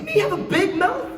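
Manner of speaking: high, loud, laughing disbelief; comic offended protest; mock indignation. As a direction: squawk it as if wrongly accused. Mock indignation at being called leaky.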